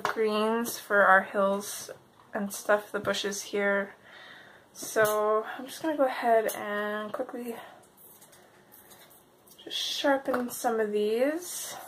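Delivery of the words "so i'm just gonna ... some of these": talking through a sore throat; slightly hoarse, sore throat voice. Real, not acted. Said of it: "I apologize if I sound funny. I woke up with a sore throat".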